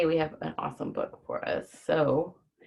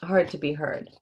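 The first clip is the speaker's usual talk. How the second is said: put-on reading to children; 2 semitones higher, 3 dB louder than usual. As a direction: read it out brightly to the kids. Reads picture book to children.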